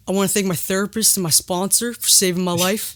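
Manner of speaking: imitated acceptance speech with a little Southern twang; lightly Southern impression of an actor; Shia's Southern-tinged accent. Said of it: "an impression of him".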